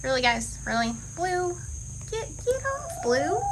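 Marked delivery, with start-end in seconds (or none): 1.2-3.4 calling the dog. Real, not acted. Calling to pets, high pitched.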